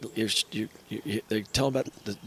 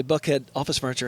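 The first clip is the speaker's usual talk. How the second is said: phone greeting. Retold or imitated. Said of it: "I'd say".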